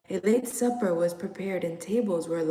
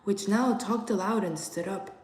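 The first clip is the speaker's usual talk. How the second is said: ordinary delivery, nothing marked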